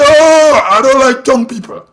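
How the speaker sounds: imitating critics with a loud opening exclamation; mock outcry. Blogger mimicking critics' complaint about him, mock outcry. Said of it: "they say".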